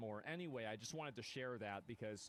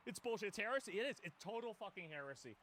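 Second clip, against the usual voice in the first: indignant outburst; 5 semitones higher, faster than usual. Real, not acted. Streamer denouncing the clip as heresy, indignant outburst. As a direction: let the outrage burst.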